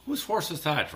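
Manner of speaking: a light, mock Irish lilt; jokey Irish accent on a song title. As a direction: toss off a quick, half-hearted Irish brogue. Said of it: "the Irish accent".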